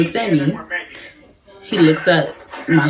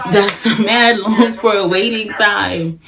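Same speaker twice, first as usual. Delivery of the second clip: laughing through it; 5 semitones higher, much slower than usual. Retold or imitated. Laughing at the long wait.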